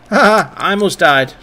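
loud put-on "ha ha", voicing the kid; hammed-up laughing quote; mock laughing. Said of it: "He's laughing about it".

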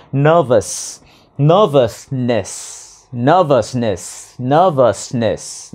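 "nervousness" slowed right down in three syllables; syllable-by-syllable demo. Shown as a demonstration. Teacher showing learners a three-syllable word, slow syllable-by-syllable demo. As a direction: sound out "nervousness" slowly, syllable by syllable. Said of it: "Từ này là từ có ba âm tiết".

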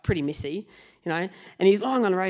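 ordinary talk, nothing marked

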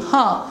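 high musing "huh"; thinking "huh". Shown as a demonstration. Teacher acts a reader thinking about the writer, musing "huh". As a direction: react as a pondering reader. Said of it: "I'm thinking".

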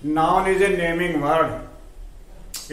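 very slow, word by word, for students to write down; slow dictation. Shown as a demonstration. Teacher dictating a definition to students, very slow and clear. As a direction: spell it out slowly so the class can copy.

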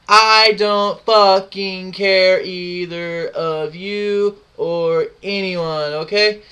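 slow, loud, every word dragged out; drawn-out defiant yell. Real, not acted. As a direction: spit it out slowly, daring them. Ranting at clan members.

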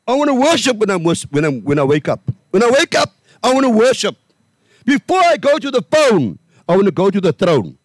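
lightly preached retelling; quoting own sermon. Retold or imitated. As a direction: replay last Sunday's sermon line. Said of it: "I was saying".

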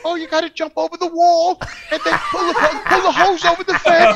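a hint of a helpful old lady; little old lady. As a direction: lightly mimic an old lady, drawing out the instructions. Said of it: "it's a little old lady".

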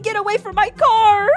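Riley texting about her stolen car, mock angry; friend's voice. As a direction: read the friend's demand in character. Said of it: "She said".

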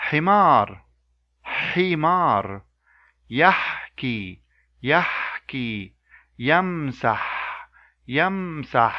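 "himar", "yahki", "yamsah" with a throaty pharyngeal h; Arabic example words. Shown as a demonstration. Teacher modelling example words for learners to copy. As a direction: say each word slowly and clearly twice.

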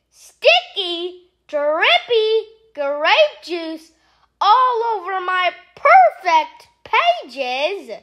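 slow, disgusted complaint; slow appalled groan of words. Acted. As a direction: drag out the disgust. Disgust at stained pages.

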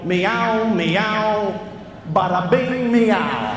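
loud, high mock-tough cat meowing; a streetwise New York cat meowing bada bing. Speaker voicing a cocky New York cat, loud and high. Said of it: "If cats could talk, they go".

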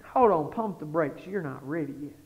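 low, settling voice after excitement; calming restraint. Retold or imitated. God answering the eager preacher, low calming restraint. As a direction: gently put the brakes on. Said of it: "And God said".

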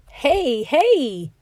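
high squeaky little wood rat. Acted. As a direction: squeak it like a tiny rodent. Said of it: "he squeaked".

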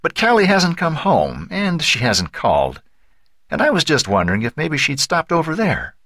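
worried, tentative phone inquiry; tense worry. A narrator's reading. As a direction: tiptoe into an awkward question, voice held high. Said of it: "her tense voice belying her words".

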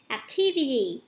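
"Activity" with a D sound in the last syllable; D in the ending. Shown as a demonstration. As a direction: say the end of "Activity" as "-vidy". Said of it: "tận cùng mình đọc là chữ D".

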